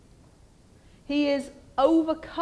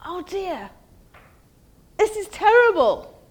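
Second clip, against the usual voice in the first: hammed-up panic, higher and louder in bursts; modern panicked Isaiah; 3 semitones higher, 4 dB louder than usual. Preacher voicing a modern Isaiah panicking before God, mock panic. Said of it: "we would say".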